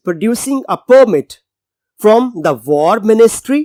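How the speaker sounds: slow, emphatic reading of the English passage; slow text reading. Shown as a demonstration. Teacher reading the novel aloud to students, slow and clear. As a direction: read it deliberately for learners.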